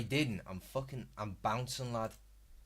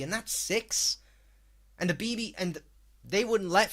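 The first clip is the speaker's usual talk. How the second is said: high, loud incredulous rant; exasperated rant; 7 semitones higher, 4 dB louder than usual. Real, not acted. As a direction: rant in disbelief, voice climbing. Ranting in disbelief at video.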